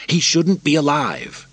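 high, loud, slow imperial whine; petulant emperor. Acted. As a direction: play the spoilt young emperor. Narrator voices Commodus.

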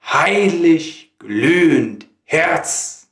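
slow, solemn verse with space between phrases; dramatic poem recitation. Acted. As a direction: declaim it like a poem on stage.

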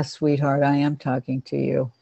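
low, soft, unhurried reassurance; soothing aside. Real, not acted. Pet expert answering an animal, softly reassuring. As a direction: murmur fondly to a pet.

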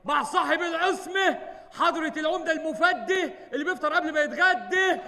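herald announcement. Acted. Announcing the mayor's arrival.

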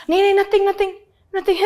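high, loud mock tittering; imitated giggly denial. Laughers brushing off her question, imitated giggly denial. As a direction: play someone denying it through laughter. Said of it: "hilariously laughing like a fucking hyena".

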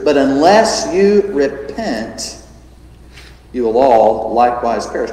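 "you" stretched and stressed; measured, heavy delivery; slow grave warning. Retold or imitated. Preacher driving home Jesus' same answer, slow. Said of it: "same answer".

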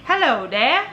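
tentative try at an Irish hello, rising at the end; attempted Irish accent. Shown as a demonstration. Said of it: "let me try my Irish accent".

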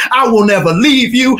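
Peter's bold promise; boastful vow. Acted. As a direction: swear it proudly.

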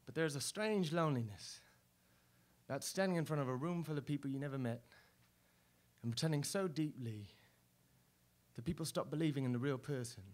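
soft, low, melancholy reflection; wistful confession. Acted. Performer confessing loneliness to the audience, soft and low. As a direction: let the loneliness sink in quietly.

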